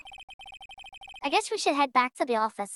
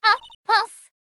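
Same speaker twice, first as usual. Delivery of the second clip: put-on loud, high, winded old lady; huff, then draw out the insult in outrage; 10 semitones higher, 10 dB louder, slower than usual. Old lady who has been chasing the boy, huffing furiously. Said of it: "what a violent old lady".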